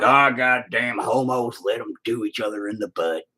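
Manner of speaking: lightly voiced old man who's stopped caring; a hint of a grumpy old-timer; old redneck voice. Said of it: "They're like".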